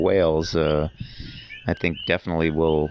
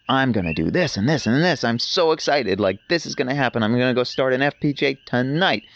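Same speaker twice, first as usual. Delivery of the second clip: imitated enthusiastic girl; 4 semitones higher than usual. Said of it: "the most enthusiastic person I've ever come across".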